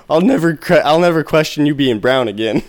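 hammed-up promise, pitched high; exaggerated vow. Friend swearing never to question him again, exaggerated vow.

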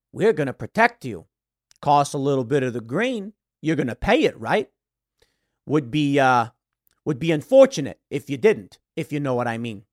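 lightly voiced mobster making a veiled threat; shakedown racketeer. Racketeer with a bat leaning on a business owner, mildly menacing.

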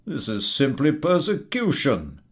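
indignant officer. Acted. Military gentleman to the collector, indignant. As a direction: bristle with offence. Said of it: "grows indignant".

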